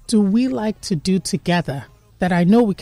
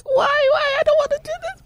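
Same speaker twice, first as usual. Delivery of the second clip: very high, hammed-up crying whine; fake-sob a protest at full pitch; mock wailing. Inner complaint while pretending interest.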